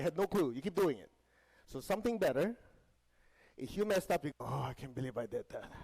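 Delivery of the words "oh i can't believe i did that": groaning mock regret; acted remorse. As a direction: kick yourself over a mistake, half in play. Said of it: "At least there's remorse".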